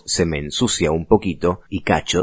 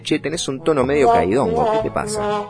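playful tone; 8 semitones higher than usual. Shown as a demonstration.

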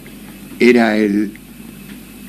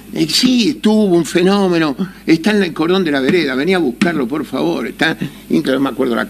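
wife pleading; 3 semitones higher than usual. Retold or imitated. Wife asks him to fetch.

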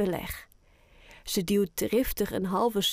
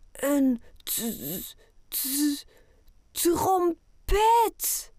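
excited stutter; 6 semitones higher, much slower than usual. Acted. Boy opening grandma's gift, stuttering with excitement. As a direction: stammer on the t, then burst out high on trompet. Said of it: "Oscar stottert van opwinding".

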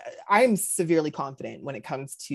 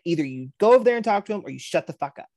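mock exasperated ultimatum; 5 dB louder, faster than usual. Retelling an ultimatum to friend.

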